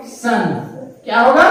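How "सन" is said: सन as a single sound, not spelled out; ending pronounced सन. Shown as a demonstration. Teacher showing how the ending reads, सन as one syllable. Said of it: "इसका उच्चारण होगा".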